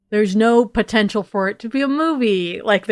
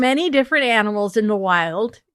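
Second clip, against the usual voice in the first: put-on Canadian accent. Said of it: "Can you make a Canadian accent?".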